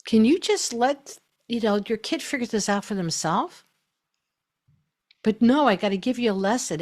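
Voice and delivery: mock a know-it-all parent who can't stop teaching; preachy lecturing parent. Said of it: "the one go like".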